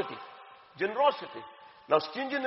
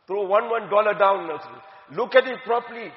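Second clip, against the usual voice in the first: emphatic command; 5 dB louder than usual. Retold or imitated. Elder's emphatic instruction.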